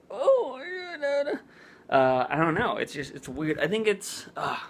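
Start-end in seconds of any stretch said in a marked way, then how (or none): 0.1-1.4 higher, breathless tongue-tied babble; flustered fangirl babble. Retold or imitated. Meeting Lee Newton, higher flustered fangirl babble. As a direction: babble like a fan too starstruck to talk. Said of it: "I love her so much that I'm just like".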